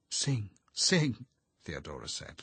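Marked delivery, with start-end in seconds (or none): 0.1-1.2 laughing whispered urging; whispering. A narrator's reading. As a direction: egg him on in a whisper.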